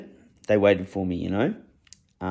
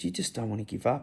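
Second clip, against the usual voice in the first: much softer, hushed, tender repeat of "You just don't wanna give up."; 3 semitones higher, 6 dB quieter than usual. Retold or imitated. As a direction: drop the voice to a hush and say it tenderly to the dog. Repeats softly to dying dog.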